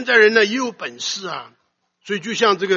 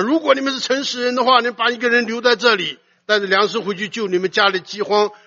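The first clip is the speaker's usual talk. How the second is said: acted stern command, pitched up; stern words; 4 semitones higher, 4 dB louder than usual. Preacher voices the lord of the land ordering the brothers, sternly. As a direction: lay down the terms firmly. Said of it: "他用严厉的话对我们说".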